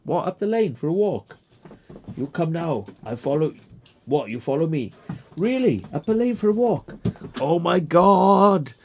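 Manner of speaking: high, excited walkies surprise; high, delighted disbelief at a walk; mock amazement. Real, not acted. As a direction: gasp it out for the dog.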